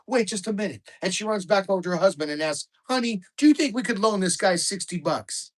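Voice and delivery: loud, high rowdy Canadian guy telling a dirty joke, eh; thick Canadian accent. Retold or imitated. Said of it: "in thick Canadian accents".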